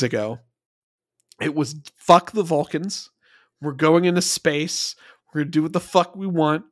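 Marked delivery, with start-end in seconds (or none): 2.0-6.6 higher-pitched cocky swagger in imitation; mock defiance. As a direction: play-act a defiant young captain. Acting early Archer's defiance.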